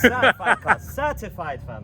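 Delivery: London roadman slang voice; slangy London street accent. Pretend. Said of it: "your roadman voice".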